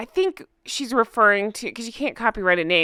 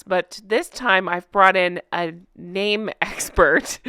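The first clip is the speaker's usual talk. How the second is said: cracking up mid-sentence; can't hold back the giggles; laughing; slower than usual. Real, not acted. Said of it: "I can't even get through that without laughing".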